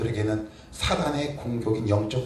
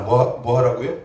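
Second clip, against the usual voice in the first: normal talking voice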